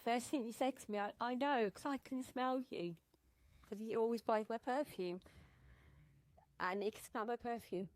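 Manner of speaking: crying. Real, not acted. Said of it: "I'm gonna cry now".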